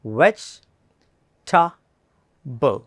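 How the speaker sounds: vegetable stretched very slowly as VEJ-tabl; slow careful vegetable. Shown as a demonstration. Teacher says listen, then models slowly. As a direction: drag out vegetable syllable by syllable. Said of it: "ശ്രദ്ധിക്കുക".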